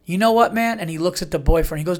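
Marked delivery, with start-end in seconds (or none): 0.0-0.8 accusing rant. Retold or imitated. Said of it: "You go".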